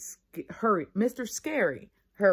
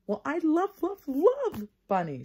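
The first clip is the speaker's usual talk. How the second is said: high, gushing, stretched-out loves; a little girl gushing about bunnies; 11 semitones higher, 5 dB louder, slower than usual. Acted. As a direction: swoon over the word love. Excited Lucille gushes.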